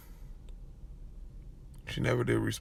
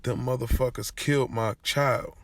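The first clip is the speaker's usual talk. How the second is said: higher-pitched, restrained imitation of anger; retold angry rant; 4 semitones higher than usual. Grandpa breaks silence about his child, angry rant. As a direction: act out an old man's bitter outburst. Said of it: "he just goes on this weird rant".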